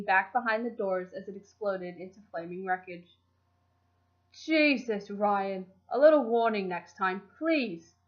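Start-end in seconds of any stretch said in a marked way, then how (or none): 4.3-7.9 put-on squawking nasal British accent. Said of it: "Gavin's nasal British accent squawked".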